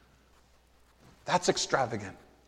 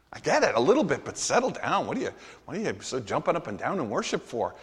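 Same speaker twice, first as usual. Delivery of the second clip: mock disciples muttering; 5 semitones lower, 6 dB quieter, faster than usual. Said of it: "You can hear their expression".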